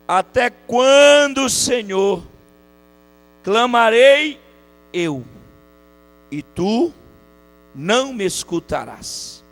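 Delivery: slow, loud cry of a verse with long pauses; drawn-out pulpit declamation; declaimed scripture reading. Real, not acted. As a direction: proclaim the verse, swelling on key words.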